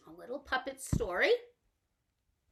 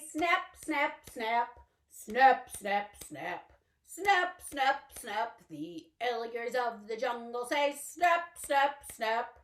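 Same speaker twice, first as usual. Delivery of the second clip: snapped words; alligator snap. Pretend. Teacher snapping like an alligator in the song. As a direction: snap them like jaws.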